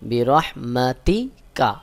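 slow বি রহমাতি কা with h from mid-throat; throaty ha. Shown as a demonstration. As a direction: press the h of রহমাতি out from the middle of the throat. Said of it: "হলকের মধ্যখান থেকে উচ্চারণ হবে".

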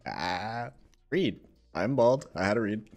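lightly voiced smug teammate; Saucy impression. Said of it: "this is my saucy impression".

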